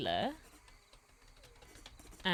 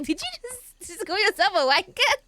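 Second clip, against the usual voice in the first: high, disbelieving squeak; shocked question in a much higher voice; incredulous; 13 semitones higher, 7 dB louder than usual. Retold or imitated. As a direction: act stunned he just called himself that. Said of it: "And I was like".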